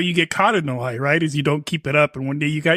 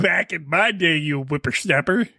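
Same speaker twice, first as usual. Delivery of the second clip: put-on old man voice. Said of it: "I'm gonna sound like an old fuck again".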